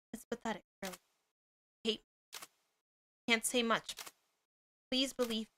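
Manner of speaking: a quiet guilty apology; sad confession. Acted. Voicing a sad character.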